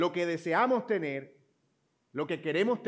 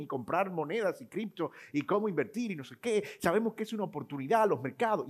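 energetic saleswoman; 3 semitones higher than usual. Retold or imitated. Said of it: "muy enérgica ella".

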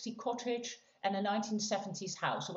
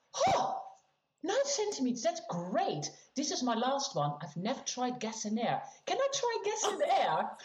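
high, bright-eyed eager voice; giddy at the news; excited; 4 semitones higher than usual. Retold or imitated. Her own excited reaction retold.

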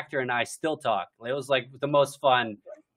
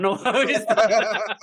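laughing; 8 semitones higher, 6 dB louder than usual. Real, not acted. Laughing at the party joke.

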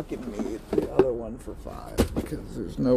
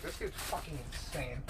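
imagined bystander; 13 dB quieter than usual. Retold or imitated. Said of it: "hear me outside of this like".

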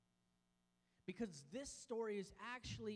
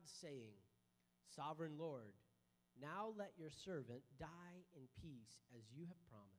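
scripture reading. Acted. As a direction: read the passage with reverence. Reads Luke chapter two.

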